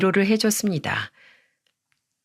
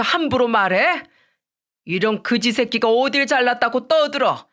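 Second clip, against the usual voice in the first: raging father-in-law; 3 semitones higher than usual. Acted. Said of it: "난동을 부렸고".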